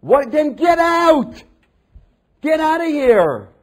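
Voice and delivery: high, loud, slow scornful dismissal; imagined harsh reply to woman at the well; mock hostile rebuff. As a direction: drive the woman away with contempt. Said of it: "He could have said".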